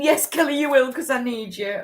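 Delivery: lightly voiced spirit answering; a hint of an eager spirit voice; quoted spirit. Quoting a spirit's reply.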